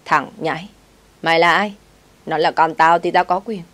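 put-on loud, slurring drunk old man; slurred drunk voice. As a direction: bark it out drunkenly. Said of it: "giọng lè nhè".

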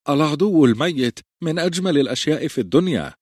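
cheerful. Acted. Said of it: "قال بمرح".

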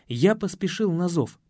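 plain reading voice

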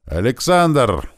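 drawn-out, high, loud shout of a name; громкий крик: loud call. A narrator's reading. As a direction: call out loudly, stretching the name. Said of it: "услышал я громкий крик". (громкий протяжный окрик)

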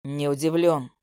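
low, cold man's voice. Acted. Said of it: "Холодность в его голосе".

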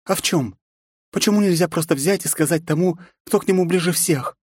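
put-on high, earnest young woman's voice; a girl pressing for answers; young heroine. A narrator's reading. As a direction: read as Nastya, young and urgent. Nastya on the phone.

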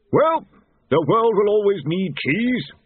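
desperately filling silence; high desperate pleading voice. A narrator's reading. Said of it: "said War desperately".

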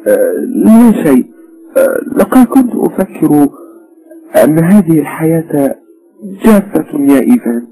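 put-on a bored young wife lets out a sigh; weary wife. A narrator's reading. Wife tells her husband life is dry, sighing.

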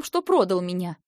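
angry accusation. Acted. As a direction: throw the betrayal at him. Sister confronting brother. (громкий упрёк)

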